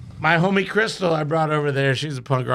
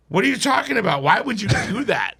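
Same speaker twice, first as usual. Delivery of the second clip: retold exasperation; 2 semitones higher than usual. Acted quarrel over the tattoo.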